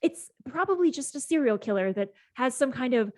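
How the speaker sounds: indignant self-important explanation, pitch jumping on key words; sigh, then lecture them in a huff; emphatic, swooping debunker's rant; huffy. Acted. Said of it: "He stows his phone huffily".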